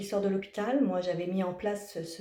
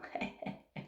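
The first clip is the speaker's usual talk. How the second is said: soft laugh; 13 dB quieter than usual. Real, not acted. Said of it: "C'était le rire".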